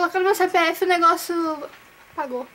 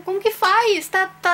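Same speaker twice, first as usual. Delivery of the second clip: flustered question; 5 semitones higher, 4 dB louder than usual. Real, not acted. Stuck on the results page.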